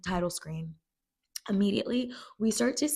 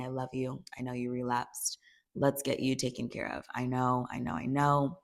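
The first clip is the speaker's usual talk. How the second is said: soothing mom; 7 semitones lower than usual. Retold or imitated. Retells the mother soothing Rue.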